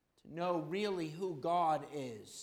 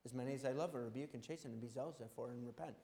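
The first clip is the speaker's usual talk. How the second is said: put-on child reciting; 8 semitones lower, 11 dB quieter, much faster than usual. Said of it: "Abby quotes this verse".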